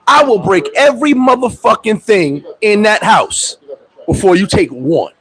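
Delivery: slow, deliberate threat; defiant threat. Retold or imitated. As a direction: spell it out word by word, daring them. Threatening in court.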